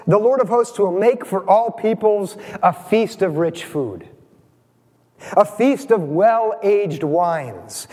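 slow, deliberate reading of the prophet's words; scripture reading. Acted. Preacher reading Isaiah aloud to his congregation, slow and deliberate. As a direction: lay each image out slowly, savouring it.

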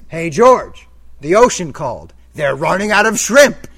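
loud, slow taunt; a coworker's cutting jab, loud and slow; mocking insult. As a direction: land the zinger across the table. Coworker insults George in meeting.

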